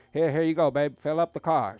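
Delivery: friend's dad offering his ex-wife a bottle; mock proud dad. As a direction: hand it over like a gift. Dad offering fart gas.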